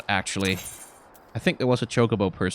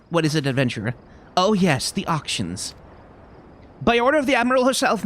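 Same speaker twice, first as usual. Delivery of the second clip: lightly voiced official, often higher in pitch; game official; 7 semitones higher than usual. Official explains housing auctions to an adventurer, put-on formal character voice. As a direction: read it as a formal clerk addressing visitors.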